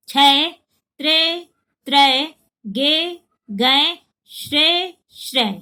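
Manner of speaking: paired syllables, े short and ै open, each clear; contrasting vowel drill. Shown as a demonstration. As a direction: make the difference between े and ै plain. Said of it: "एकदम साफ फर्क दिखाई दे". (े और ै का फर्क साफ़ बोलना)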